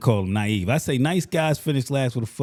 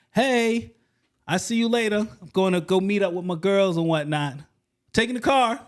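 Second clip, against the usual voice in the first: put-on breezy girl; 6 semitones higher than usual. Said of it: "next thing is like".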